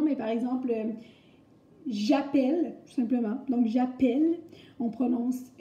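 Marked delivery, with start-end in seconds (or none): 1.9-2.8 "appelle" with an open è; careful "j'appelle", clear è before the L. Shown as a demonstration. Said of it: "comme un E accent grave". 3.7-4.4 "appelle" with open è; louder syllable è in "j'appelle"; teacher's clear "appelle" with open E. Shown as a demonstration. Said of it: "comme un E accent grave".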